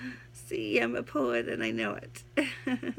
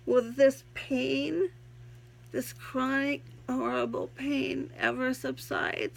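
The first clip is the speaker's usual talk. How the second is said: poem reading; 2 semitones higher than usual. Acted. Reads her own poem aloud.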